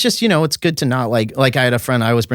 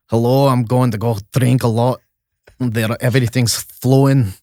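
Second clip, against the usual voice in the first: mock Scottish accent. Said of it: "Ireland and Scotland have a little bit more".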